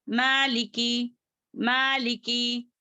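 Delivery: मालिकी with long first vowel, short li and ki; correct short endings. Shown as a demonstration. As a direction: stretch only the maa in मालिकी. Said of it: "इस तरीके से करेंगे".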